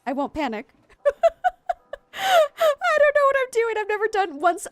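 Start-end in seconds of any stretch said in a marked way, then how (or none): 1.0-2.1 nervous high laugh. Real, not acted. 2.1-4.7 panicking. Real, not acted. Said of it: "I will stop panicking soon".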